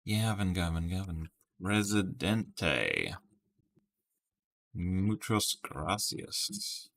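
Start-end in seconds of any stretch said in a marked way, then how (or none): 1.6-6.9 put-on slow, careful Spanish with an American accent. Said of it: "Apologies for my terrible Spanish".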